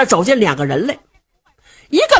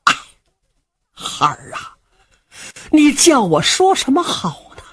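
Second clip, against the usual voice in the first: weary sigh, then mournful reproach; an old man heaving out his grief; sighing old father; 4 semitones higher than usual. Acted. Old father sighing sorrowfully at his ungrateful son. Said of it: "叹了一口气".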